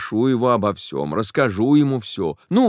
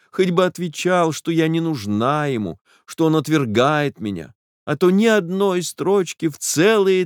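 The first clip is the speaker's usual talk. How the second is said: higher, aggrieved tearful complaint; hurt lament; 6 semitones higher than usual. A narrator's reading. Jilted girl to the narrator, higher hurt lament. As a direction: pour out the hurt of being scorned.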